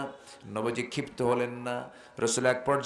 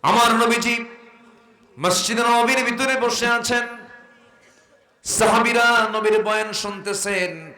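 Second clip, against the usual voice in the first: full force preaching; 9 semitones higher, 8 dB louder than usual. Real, not acted. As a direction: sing it out to the congregation. (উচ্চস্বরে ওয়াজের সুর)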